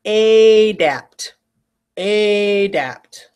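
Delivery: adapt starting with a full clear a, not a schwa; spelling pronunciation. Shown as a demonstration. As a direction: say adapt as ay-dapt. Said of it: "I want you to say to spell".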